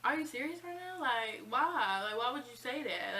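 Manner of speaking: high, incredulous outburst at the teacher; mock-shocked "are you serious"; shocked disbelief. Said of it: "I was like".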